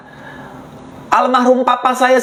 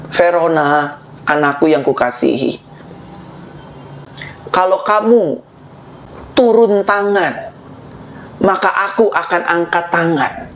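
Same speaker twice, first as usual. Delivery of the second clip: voice of God; 6 semitones lower, 3 dB quieter than usual. Retold or imitated. Lord speaking to Verona in prayer, low and hushed. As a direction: speak as the Lord, gently and lower. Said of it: "Tuhan bilang sama saya".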